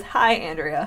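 put-on amateur British-accented greeting; poor British accent. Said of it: "In my very poor British accent".

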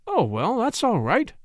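breezy reassurance with a lifted pitch; cheerful young man, mildly played. A narrator's reading. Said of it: "exclaimed the young man cheerfully".

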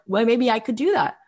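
high, rising self-belief; retold eager daring; Brian Grazer. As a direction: talk yourself into it with growing excitement. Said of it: "he felt so excited".

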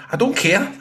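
high, uninterested brush-off; bored dismissal. Retold or imitated. Pundit ignoring stats, bored mock brush-off. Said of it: "I'll be sitting there going".

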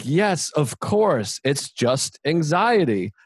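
slow, emphatic agreement; relieved realization. Retold or imitated. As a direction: agree as if it all suddenly makes sense.

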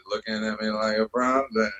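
understated low creepy line. Shown as a demonstration. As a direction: drop it a touch, creepy and low. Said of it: "with the, like, lower".

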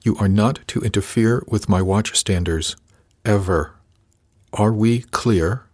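each word clipped apart, slow at the end; bitten-off words. Acted. First mate warning the junior officer, each word bitten off. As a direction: bite off every word like a threat. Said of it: "He bit off each word".

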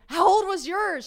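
high, loud acted question; urgent demand. Woman calling her friend immediately, high urgent question.

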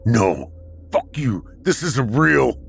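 screamed. Acted. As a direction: push back hard, voice climbing. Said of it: "I screamed".

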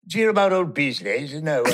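British accent. Shown as a demonstration. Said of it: "Can you do a British accent?".

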